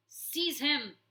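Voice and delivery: high, loud panicked command; screamed order. Acted. Warlord ordering his guards, high loud scream. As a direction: shriek for the guards. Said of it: "Clooney screamed".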